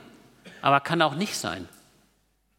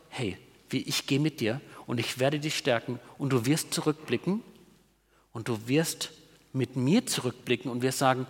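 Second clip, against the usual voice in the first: tender voice of God; 4 semitones lower, 5 dB quieter than usual. Retold or imitated. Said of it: "denen sagt Gott".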